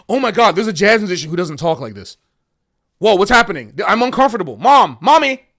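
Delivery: mock the uncomfortable viewer crying for mommy; mock upset viewer. Mocking viewers unsettled by a different jazz musician, panicked whine. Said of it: "people are just like".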